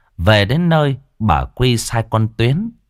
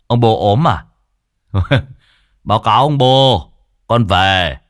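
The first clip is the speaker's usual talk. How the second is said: cheeky son; 4 dB louder than usual. Acted. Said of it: "hai thằng mất dậy".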